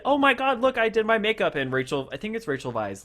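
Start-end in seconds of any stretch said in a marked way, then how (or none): 0.0-1.5 mock giddy, much higher pitch; a hammed-up thrilled squeal; giddy excitement. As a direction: gush like a proud little girl showing off. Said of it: "she comes out all excited".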